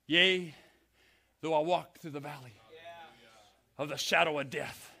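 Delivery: quiet recital. Shown as a demonstration. Pastor demonstrating a verse as a war cry, hushed and low. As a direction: murmur the psalm low and hushed. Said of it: "this is Sounds of a Warrior".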